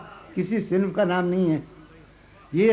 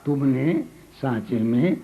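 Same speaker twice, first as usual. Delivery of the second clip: poem recital. Acted. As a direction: savour each line for the audience. Recites second qita.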